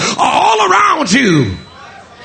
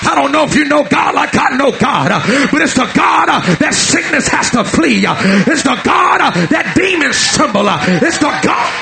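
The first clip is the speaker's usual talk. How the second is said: fiery preaching. Acted. Preaching at full force.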